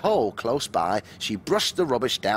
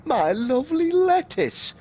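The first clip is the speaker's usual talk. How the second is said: high, louder cry of dismay; 14 semitones higher, 4 dB louder than usual. A narrator's reading. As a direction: wail over the ruined lunch. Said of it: "cried Mummy Rabbit".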